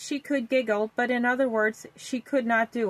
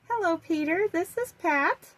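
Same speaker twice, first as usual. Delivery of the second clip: aunt voice; 6 semitones higher than usual. A narrator's reading. Aunt Pat on the phone.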